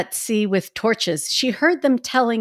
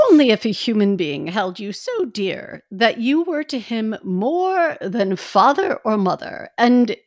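put-on old lady voice. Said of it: "do the old lady voice".

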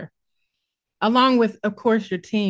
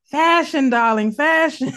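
hammed-up fashion diva, higher and louder; playful diva; 6 semitones higher, 5 dB louder than usual. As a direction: proclaim it like a playful fashion maven. Playful cry of fashion catchphrase.

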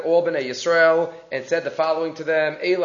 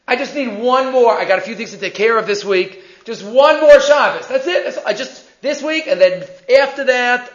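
retold pleading; 3 semitones higher, 5 dB louder than usual. Rich man bargaining with the rabbi for one more week, pleading. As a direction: plead for a little more leeway, voice pushed up.

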